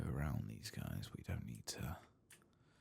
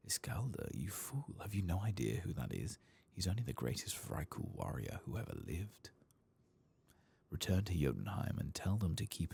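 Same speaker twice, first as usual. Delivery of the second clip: lightly voiced indignant mistress, higher pitch; higher, incredulous quest-dialogue scolding; scolding lady; 5 semitones higher than usual. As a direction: scold a foolish servant, mildly hammed-up. Voices lady scolding servant in game.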